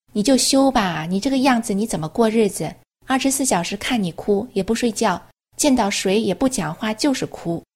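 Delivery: mildly voiced impatient policeman nagging; exasperated guard. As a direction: scold her like a fed-up guard who is sick of her crying. Police officer scolding crying prisoner.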